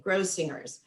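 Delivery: Grossinger's repeated with a hard G. Shown as a demonstration. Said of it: "with the hard G".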